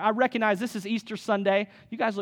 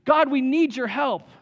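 mock crying out; 4 semitones higher, 4 dB louder than usual. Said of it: "they're crying out saying".

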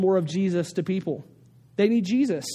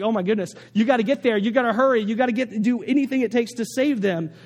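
urgent urging; 3 semitones higher than usual. Retold or imitated. Preacher urging Coast Guard on screen, urgent. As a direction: cheer the rescuer on anxiously. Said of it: "And I'm watching this like".

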